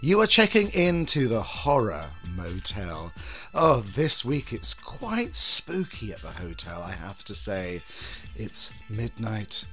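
slow sultry horror host purr; breathy vintage purr. Acted. Horror host intro persona.

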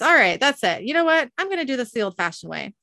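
mock exasperated outburst; fed-up interruption. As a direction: cut in as if you've had enough. Dean cuts in, talking over Boltar.

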